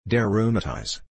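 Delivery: put-on old man with a German accent; heavy German-English, briefly stated. Father naming his ailment to daughter, German accent. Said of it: "the old German".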